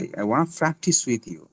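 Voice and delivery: practice starting like ফ, in a slow sentence; slow example, breath released on practice's P; aspirated P. Shown as a demonstration. Teacher translating the sentence, aspirated P. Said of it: "এটা হবে ফ, প্র্যাকটিস".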